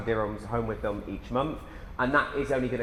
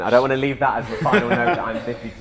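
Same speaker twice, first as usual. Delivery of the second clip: laughing; 6 dB louder than usual. Real, not acted. Host laughing at age joke.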